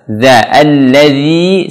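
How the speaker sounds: "Za, alladzi" slow, DH against upper teeth; touch tongue tip to teeth on "alladzi"; tongue-tip zal. Shown as a demonstration. Teacher demonstrating articulation, tongue-tip "Za, alladzi". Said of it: "bertemu dengan ujung gigi seri atas".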